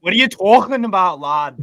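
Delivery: playful Scouse impression; Scouse accent. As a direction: put on a Liverpool lad's accent. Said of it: "the Scouse accent is great".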